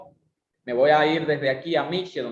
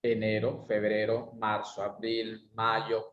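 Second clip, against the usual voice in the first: tune 1; 3 semitones lower, 4 dB quieter than usual. Shown as a demonstration. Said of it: "Voy a hacer lo siguiente".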